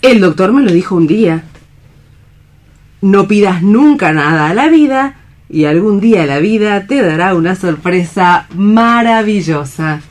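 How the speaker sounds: stage Alicia comforting a despairing man; Alicia, hopeful and tender. Acted. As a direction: speak of spring as a promise. Alicia speaks of spring and hope.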